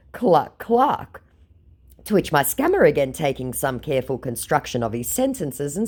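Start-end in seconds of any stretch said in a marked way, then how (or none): 0.1-1.2 high taunting clucks; mock chicken clucking. Baiter calling the scammer scared, mock clucking. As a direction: cluck like a chicken to goad him.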